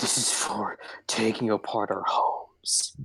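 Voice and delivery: whispering. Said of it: "he is like".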